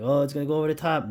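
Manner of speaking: mock alarm. Imagined viewer fretting as the beer rises, mock alarm. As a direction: blurt out a lightly acted warning. Mimics a worried onlooker at pour.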